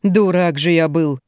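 slow, rueful self-reproach; lamenting. A narrator's reading. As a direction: bemoan your own foolishness. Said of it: "запричитал Раджив". (причитая, с досадой)

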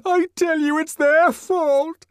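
high, slow, sobbing blame; weeping out his excuse. A narrator's reading. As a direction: Bernard sobbing, blaming the others. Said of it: "he sobbed".

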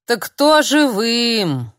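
very slow, high, drawn-out question; old crone drawling a taunt. A narrator's reading. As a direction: stretch every word out. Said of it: "протянула бабка".

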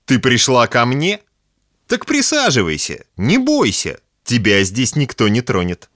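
put-on high, drunken sweet talk; drunk leering man. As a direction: coax her like a tipsy lecher. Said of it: "улыбался он".

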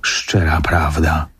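slow, subdued confirmation; low, measured butler's reply; solemn admission. Acted. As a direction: own up gravely, taking your time.

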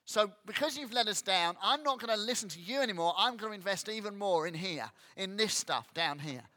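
mock petulant prayer of a grumbling believer; grumbling at God. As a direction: whine at God like a sulking child. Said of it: "We can tend to go".

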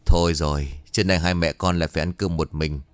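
low, resigned murmur to oneself; resigned sigh. Acted. Wife left to lunch without her husband, low and resigned. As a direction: let it drop low after a sigh. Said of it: "rồi thở dài".

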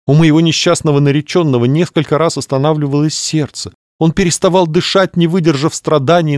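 high, plaintive widow-to-be; grieving lady voice. Acted. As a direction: lament it like a theatrical mourner. Clarissa recounts torture. (скорбящая дама)

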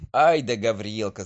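loud cheering call; shouting. A narrator's reading. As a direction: cry it out in delight. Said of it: "закричали они".

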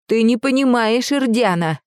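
a hint of a shrill old woman; ringing old voice. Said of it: "старческий голос зазвенел".

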